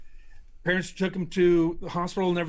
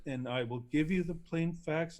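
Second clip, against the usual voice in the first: monotone scientist; 5 dB quieter than usual. Retold or imitated. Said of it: "he talks like this".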